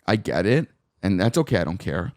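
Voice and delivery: firm and flat, no nonsense; blunt. Retold or imitated. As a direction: lay it out bluntly to the boss. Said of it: "very fucking blunt with this section head".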